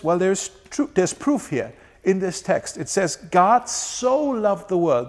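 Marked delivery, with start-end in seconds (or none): 3.2-5.1 "so" drawn out slowly and leaned on; slow, weighing the word "so"; stress on so. Shown as a demonstration. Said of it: "The word "so".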